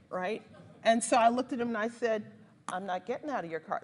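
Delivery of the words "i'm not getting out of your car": retold sassy refusal, pitched low; sassy defiance. Passenger refusing to leave the driver's car, sassy defiance. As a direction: imitate standing firm with a head roll. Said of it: "like, with the head roll and everything".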